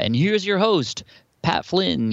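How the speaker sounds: booming radio announcer intro; high, slow showman announcer read. Retold or imitated. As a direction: introduce the host like a voiceover pro. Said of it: "I have the voiceover guy".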